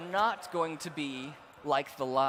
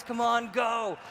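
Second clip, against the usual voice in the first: cheering guides; 3 semitones higher than usual. Retold or imitated. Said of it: "They're going".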